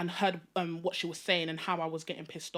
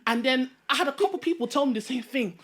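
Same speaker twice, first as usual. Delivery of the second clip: put-on African accent; 4 semitones higher than usual. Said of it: "Why did you start in the African accent?".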